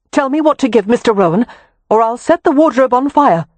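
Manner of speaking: high, loud fierce threat. A narrator's reading. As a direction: threaten fire with resolve. Wynne threatening to burn.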